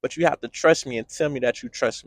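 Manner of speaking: God pleading, building to a near shout; voicing God. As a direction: speak as God, growing urgent and insistent. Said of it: "He's saying".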